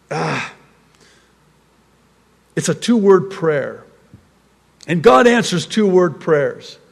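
ordinary talk

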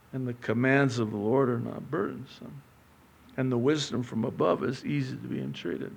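soft, low and tender; quiet reassuring God; gentle voice of God. Acted. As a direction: comfort the weary softly. God's words, soft and gentle.

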